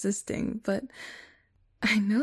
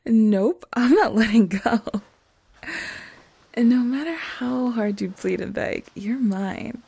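mad scientist; 7 dB louder than usual. Acted. Villain gloating over trapped partner.

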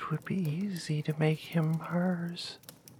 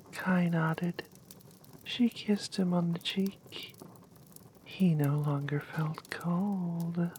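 whispered story. Acted.

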